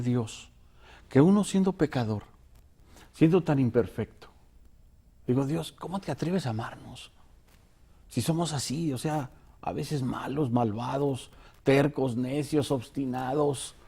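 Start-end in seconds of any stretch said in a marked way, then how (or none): 5.5-13.8 hushed prayer. Retold or imitated. Retold tearful prayer to God.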